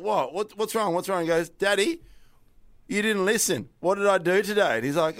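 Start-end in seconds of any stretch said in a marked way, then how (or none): 0.0-1.2 lightly voiced worried dad, higher pitch; concerned dad. Dad voiced as child cries. 1.5-4.8 higher-pitched imitation of a little kid; upset toddler. Upset two-year-old voiced in story.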